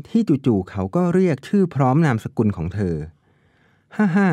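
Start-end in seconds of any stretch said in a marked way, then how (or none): 4.0-4.3 a short, light laugh that slips out; amused chuckle. A narrator's reading. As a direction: chuckle fondly at her cute voice. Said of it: "เขาเผลอหัวเราะ". (หัวเราะเบาๆ อย่างเอ็นดู)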